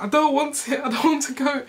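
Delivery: high whining protest, imitated tears; mock crying. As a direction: wail it like a tearful child refusing. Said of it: "I just burst out crying".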